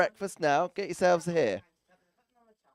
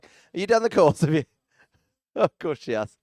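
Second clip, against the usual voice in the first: teasing; 3 dB louder than usual. Real, not acted. Commentator teasing the official over the speakers, mock stern. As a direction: tease her like a stern examiner.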